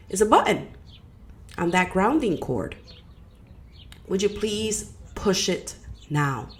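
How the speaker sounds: measured guiding voice with long pauses between phrases; guided meditation. Acted. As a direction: lead them inward, phrase by phrase, leaving space.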